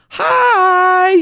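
high, loud sing-song greeting; sing-songy hi. Retold or imitated. Imitating the bubbly barista greeting, high and sing-song. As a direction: chirp it brightly up high. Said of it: "She's always sing-songy".

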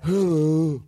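mock Cockney greeting; Cockney accent. Hosts echoing the guest's hello, mock Cockney. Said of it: "that Cockney guy".

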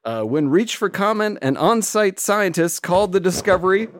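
high squeaky helium voice, slowed. Pretend. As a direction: talk like you just sucked a balloon. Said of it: "What, sucking helium?".

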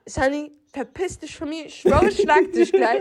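a hammed-up threat, half laughing; threatening, laughing. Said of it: "Ich hab gemeint".

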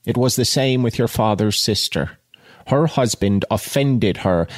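measured audiobook reading; literary narration with pauses between phrases; story narration. A narrator's reading. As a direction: read the novel aloud with deliberate phrasing.

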